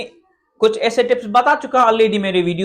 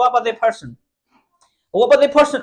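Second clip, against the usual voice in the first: American accent; slower than usual. Shown as a demonstration. Teacher showing how Americans blur the phrase. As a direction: flap every t American style. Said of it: "वो क्या बोलते हैं".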